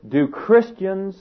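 "Christians" drawn out slowly and pitched high; stress on Christians. Shown as a demonstration. Preacher challenging the congregation, stressing Christians. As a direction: hold and lift the word "Christians". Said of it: "and I emphasize the word".

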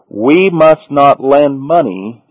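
every word of "we must not lend money" spaced out and slow; slow, deliberate emphasis. Shown as a demonstration. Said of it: "listen carefully".

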